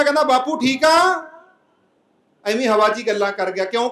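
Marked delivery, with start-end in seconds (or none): 0.2-1.2 drawn-out, rising hello to an imagined father; mock-cheery, slow rising question; pretend greeting. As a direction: stretch it out like greeting Dad from afar. Vizier pretends greeting his dead father.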